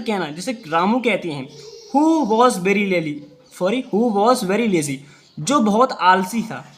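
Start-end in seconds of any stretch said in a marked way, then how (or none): 2.0-3.1 very slow, words spaced out; slow dictation. Shown as a demonstration. Teacher reading to pupils, very slow. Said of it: "जितनी speed से मैं बोलूँ". 3.9-5.0 very slow, words spaced out; slow dictation. Shown as a demonstration. Teacher reading to pupils, very slow. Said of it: "जितनी speed से मैं बोलूँ".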